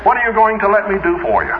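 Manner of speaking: lightly voiced breezy greeting to the Lord; chirpy greeting to God. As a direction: mimic a preacher cheerily greeting God. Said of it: "he said to the Lord this".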